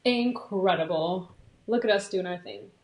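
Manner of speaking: slow, low mock British accent. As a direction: put on a slightly hammy British voice. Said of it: "That was my British accent".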